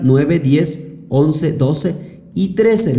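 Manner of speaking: cuenta "Nueve, diez, once, doce y trece" despacio, número por número; conteo lento de verificación. Shown as a demonstration. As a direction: verificando cada fila en voz alta, sin prisa. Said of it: "Vamos a verificar". (al revisar los resultados, cuenta lento para comprobar)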